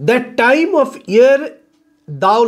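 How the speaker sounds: slow, measured verse reading; poem recitation. Shown as a demonstration. Teacher reading a Shakespeare sonnet to students, slow recitation. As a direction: read the line out slowly, word by word. Reads sonnet line to class.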